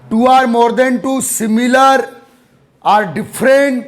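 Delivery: slow, spaced-out dictation. Real, not acted. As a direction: repeat it slowly for people taking notes. Teacher repeats the dictated line.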